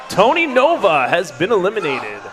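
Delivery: booming eighties radio DJ; hammed-up shock jock announcement; shock jock radio host. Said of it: "I do eighties shock jock voices too".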